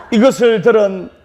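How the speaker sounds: ordinary delivery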